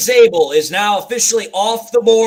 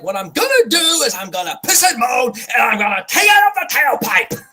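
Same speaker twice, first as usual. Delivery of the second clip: fast mock rant; 3 semitones higher than usual. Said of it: "So he's like".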